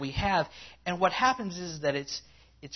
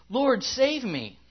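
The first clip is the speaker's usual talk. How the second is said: higher, louder plea as read aloud; a raised, urgent scripture cry; 7 semitones higher, 8 dB louder, much slower than usual. A narrator's reading. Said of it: "He cried out".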